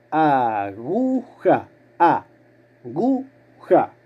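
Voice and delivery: AGUJA muy lenta, a-gu-ja; separado en sílabas. Shown as a demonstration. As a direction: alarga cada sílaba de "Aguja" con pausas. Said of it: "Separen sílabas". (silabeo lentísimo de "aguja")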